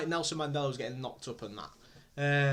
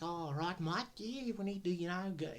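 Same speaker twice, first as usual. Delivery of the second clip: 1 mock South African accent; 3 semitones higher, 7 dB quieter than usual. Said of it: "he's like".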